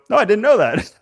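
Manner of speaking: high, loud, still amazed; retold amazed reply. To the dean about his top grade, amazed. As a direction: say it like the news just landed.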